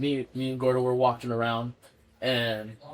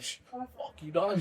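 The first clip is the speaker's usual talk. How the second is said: hushed brush-off; 6 semitones higher, 7 dB quieter, slower than usual. Retold or imitated. Diego hushing Dan Rue's teasing.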